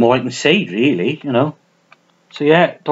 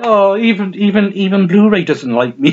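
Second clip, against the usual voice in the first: exasperated; 5 semitones higher than usual. Real, not acted. Struggling to open the Blu-ray case.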